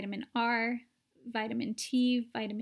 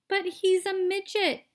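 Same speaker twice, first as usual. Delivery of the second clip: loud, higher indignant cry; shouted; 8 semitones higher, 5 dB louder than usual. A narrator's reading. Father shouting at the shrunken son, loud. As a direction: shout it in disbelief. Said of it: "shouted Mister T V".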